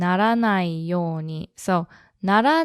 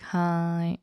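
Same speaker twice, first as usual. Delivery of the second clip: cynical hai; 5 dB quieter than usual. Shown as a demonstration. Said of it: "Yeah, like".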